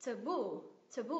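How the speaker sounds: "taboo" as ta-BOO, last syllable held; teacher's model of "taboo", weight on BOO; stress on final syllable. Shown as a demonstration. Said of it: "nhấn vào ngay cái âm tiết đấy".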